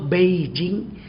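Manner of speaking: "Beijing" with a voiced b; as spelt. Shown as a demonstration. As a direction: say "Beijing" as written, bei-jing. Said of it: "tulisannya ditukar jadi beh".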